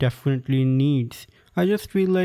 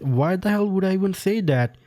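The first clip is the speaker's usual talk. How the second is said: higher-pitched, baffled protest; incredulous retort; 6 semitones higher than usual. Acted. Teacher answering the girl's odd accusation, incredulous. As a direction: push the question up in disbelief.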